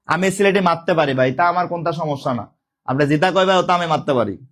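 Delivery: casual Sylheti lilt; Sylheti dialect. Shown as a demonstration. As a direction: show off a little Sylheti. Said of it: "আমি সিলেটি পারি টুকটাক". (সিলেটি টানে বলা)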